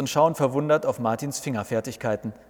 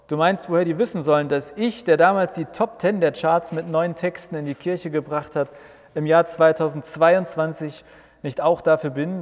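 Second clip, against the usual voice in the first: indignant; 4 semitones higher than usual. Acted. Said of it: "ruft Martin laut aus".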